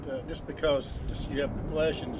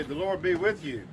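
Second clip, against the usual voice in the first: prayer; 3 semitones lower than usual. Real, not acted. Leads a prayer.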